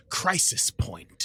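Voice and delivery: whispered title, spooky; dramatic whisper. Pretend. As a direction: breathe the title like a secret.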